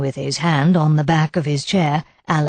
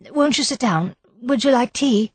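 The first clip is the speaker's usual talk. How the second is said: calm hostess; 8 semitones higher than usual. A narrator's reading. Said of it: "She was quite calm now".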